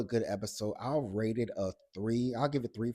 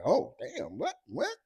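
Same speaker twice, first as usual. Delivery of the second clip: much higher, squealing mock shock; mock gasp; 13 semitones higher, slower than usual. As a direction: act out the whole group gasping. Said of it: "everybody's like".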